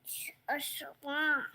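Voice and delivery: whispered secret hint; whispering. Real, not acted.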